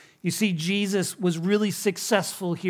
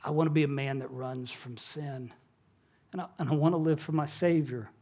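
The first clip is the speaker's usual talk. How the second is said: softened, earnest retelling of a confession; real serious; 5 dB quieter, faster than usual. Retold or imitated. Neighbor confiding his faith to the pastor, real serious. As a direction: drop the volume and speak sincerely. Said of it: "he got real serious".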